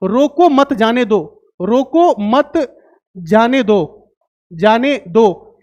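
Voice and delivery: unbroken slow read. Shown as a demonstration. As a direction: read out slowly, without pauses. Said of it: "अगर मैं यहां पे लिखूं".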